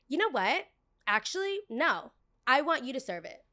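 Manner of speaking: high, mocking customer voice; haughty customer. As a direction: mimic an entitled girl putting her foot down. Imitates haughty customer refusing.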